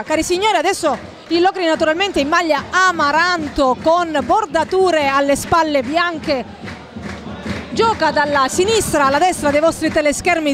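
ordinary talk, nothing marked

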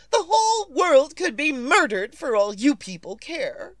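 nervous invalid scolding the operator; angry complaint. Acted. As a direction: let the frustration spill out. Berating the telephone operator.

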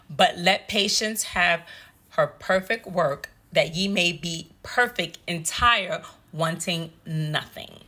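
slow, measured reading of the verse; slow scripture reading. Shown as a demonstration. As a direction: let each word of the scripture settle. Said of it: "if we could read here in James one four".

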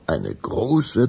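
usual speaking voice

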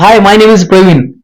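lightly voiced ex introducing himself; ex-boyfriend's voice. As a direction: drop the voice and draw out the intro like a smooth rival. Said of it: "मागून आवाज आला".

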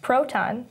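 "Proton" with the weight on "Pro"; stress on first syllable. Shown as a demonstration. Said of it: "has the first syllable stressed".

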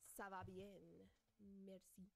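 understated mock French accent. Shown as a demonstration. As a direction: try out French pronunciation, low-key. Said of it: "The French".

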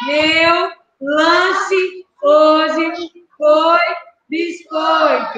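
very slow, each word pulled apart; very slow dictation. Shown as a demonstration. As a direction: drag out every word for counting. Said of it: "eu quero que vocês contem com o dedo".

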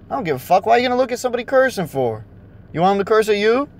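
ordinary delivery

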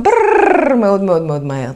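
rolled brrr, then words rattled off; mock rapid-fire talk. Teacher mimicking speakers who talk very fast, mock rapid-fire. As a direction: imitate a motor-mouth with a trilled brrr. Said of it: "כשאתם מדברים מהר".

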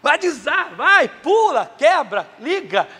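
loud, high energetic calls; excited list. Retold or imitated. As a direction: rattle off the kids' games with glee. Listing kids' wild play.

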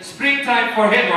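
wobbly imitation of a German fan; German fan's accent. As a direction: make the request in a put-on German accent. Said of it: "This is my German accent".

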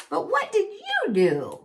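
high-pitched little mouse voice; challenging mouse. A narrator's reading. Mouse challenges the one taking credit, high voice. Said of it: "Mouse said".

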